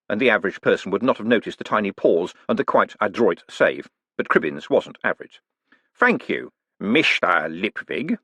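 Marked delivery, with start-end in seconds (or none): 5.9-8.2 slow, drawn-out Mister then a biting Lipwig; sardonic. Acted. Con man signalling gotcha to Moist, drawn-out and sardonic. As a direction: let him know you've caught him. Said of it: "the drawn-out Mister and the explosively sardonic".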